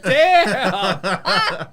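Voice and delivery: shouted high through a laugh; loud laughing exclamation. Pretend. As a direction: blurt it out laughing.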